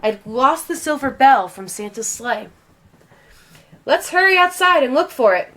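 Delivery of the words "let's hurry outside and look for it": high, louder eager plea; a child's high urgent suggestion. A narrator's reading. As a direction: rush them to go search. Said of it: "one of the children said".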